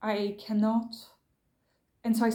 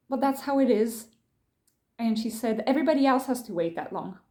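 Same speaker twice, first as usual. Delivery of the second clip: mildly raised, condescending retort; imitated condescension. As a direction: imitate a dismissive near-shout, lightly. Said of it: "a condescending way. Really, she was almost, like, shouting".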